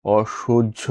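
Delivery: অসহ্য said as "oshojjho"; careful অসহ্য with a jjh sound; demonstrated pronunciation. Shown as a demonstration. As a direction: pronounce হ্য in অসহ্য as jjh. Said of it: "শব্দের উচ্চারণ".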